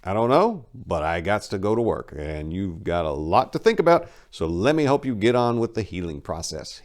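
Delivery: steady and firm, no give; brushing her off kindly but final. Acted. Enrico firmly pushing Maria out the door. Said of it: "he continued firmly".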